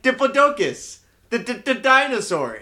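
imitated stutter. Friend mimicking how he stuttered through "dinosaur", imitated stutter. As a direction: stumble repeatedly on "the", imitating him. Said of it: "he was stuttering himself through that sentence".

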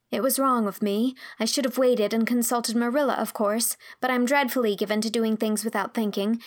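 lightly voiced young girl, explaining anxiously; a hint of a flustered girl's voice; earnest confessing girl.

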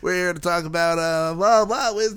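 morning radio host. Acted. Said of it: "That's like a morning radio".

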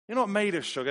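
high, loud, jokey scolding; emphatic family motto. Retold or imitated. Parent urging family out into the rain, loud mock scolding. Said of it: "The phrase is".

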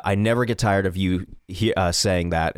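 low, tender and understated; sweet. Retold or imitated. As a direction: confide it gently at the bedside. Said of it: "really sweet moments".

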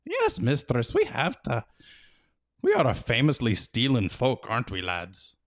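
rally the lads with pride; proud Feegle. A narrator's reading. Feegle speaking to his fellows.

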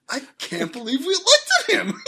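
high, loud mock wail; half laugh, half cry it in despair; tearful disbelief. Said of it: "entirely different range of emotions".

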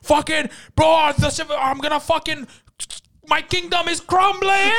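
loud, high, hammed-up gamer panic; mock screaming. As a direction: wail to your friend as if all is lost. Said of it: "You're screaming".

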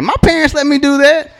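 put-on high, sassy kid voice; smart-mouthed kid. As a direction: mimic a bratty kid talking back. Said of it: "they gotta chime in real smart".

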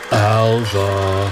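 low, drawn-out name call; low opening call. Retold or imitated. Boss calling his secretary from his office, low drawn-out call. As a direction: start the call low and stretch it. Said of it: "he just starts going".

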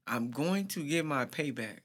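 mock menacing. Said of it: "He says he's gonna get his payback".

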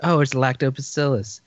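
a light Valley girl impression. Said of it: "How do you say".

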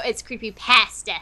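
"creepypasta" with the a of "cat" in pasta; British short-a "pasta". Shown as a demonstration. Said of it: "You mean pasta?".

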